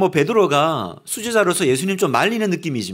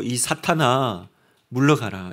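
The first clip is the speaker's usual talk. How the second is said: low, slow, stern command to Satan; Jesus rebuking Peter, low and slow; stern rebuke; 7 semitones lower, 3 dB quieter, slower than usual. Retold or imitated. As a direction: cast him off with weighty slowness. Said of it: "제일 심한 말".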